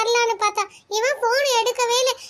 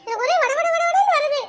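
high, giggling through the words; bubbling over with happy laughter; mother hears of the pregnancy, laughing excitedly; laughing with joy; 4 semitones higher than usual. Acted.

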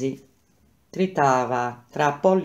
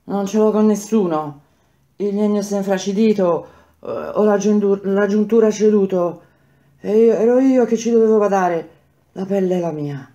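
panting; 5 semitones higher, 5 dB louder than usual. Acted. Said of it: "ansimava Quinto".

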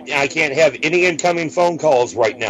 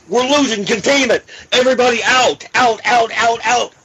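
panicked shouting; 8 semitones higher than usual. Acted. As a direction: yell it like the lab is failing. Faked emergency evacuation.

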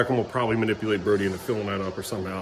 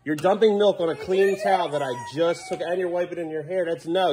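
higher, firm parental scolding; 7 semitones higher than usual. Real, not acted. Dad scolding kids over spilled milk.

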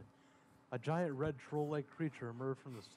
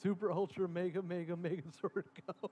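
raised-pitch transformation call; battle cry; 5 semitones higher, 3 dB louder than usual. Acted. Hero calling for Megazord transformation, mildly hammed-up battle cry. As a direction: call out the mock-heroic command.

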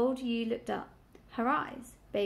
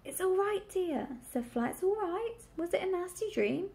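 soothing; 8 semitones higher than usual. A narrator's reading. Mother dog soothes frightened piglet.

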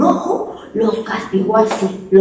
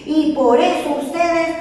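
annoyed God; 3 semitones higher than usual. Acted. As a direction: pronounce the sentence with displeasure. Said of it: "con una voz molesta le dijo". (Dios molesto, voz lenta y severa)

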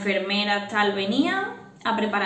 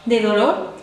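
retold screaming; 4 dB louder, slower than usual. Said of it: "gritaba, decía".

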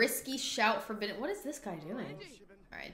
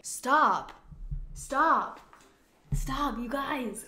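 loud, high excited protest; excited stop; 4 semitones higher, 4 dB louder, much slower than usual. Real, not acted. Player stunned her idol is on set, loud excited stop. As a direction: squeal stop in disbelief. Freaking out seeing Judith.

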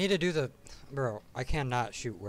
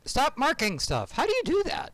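frustrated outburst; 12 semitones higher, 3 dB louder than usual. Real, not acted. Frustrated at enemy.

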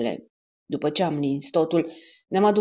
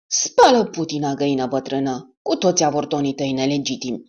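yelling at the hen. Acted. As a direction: chase the hen off with a yell. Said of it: "a țipat la ea".

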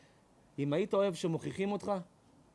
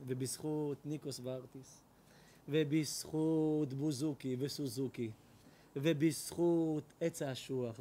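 slow, lower, soft droning blessing; mock priest litany; 4 semitones lower, 5 dB quieter than usual. The priest blessing the confessing woman, slow mock litany. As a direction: intone it like a solemn rite.

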